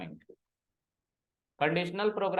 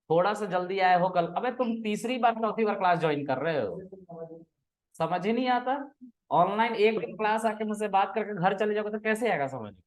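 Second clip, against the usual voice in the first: exasperated teacher scolding, pitched up; raised, exasperated telling-off; 5 semitones higher than usual. Real, not acted. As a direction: tell off the student who keeps rejoining. Teacher scolds a repeat student.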